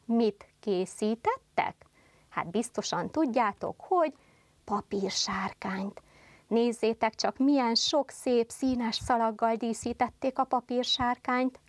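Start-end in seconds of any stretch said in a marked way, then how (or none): 4.6-6.0 whisper. Shown as a demonstration. Teacher whispers the answer.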